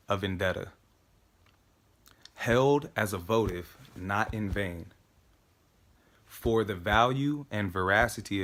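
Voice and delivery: measured, solemn reading with pauses; careful declaiming in an even voice; deliberate recitation. Acted. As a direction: recite phrase by phrase, letting each settle. Recites the monologue piece by piece.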